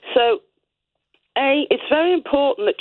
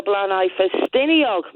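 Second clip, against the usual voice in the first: Welsh pronunciation; slower than usual. Shown as a demonstration. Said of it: "I said that like a Welsh person".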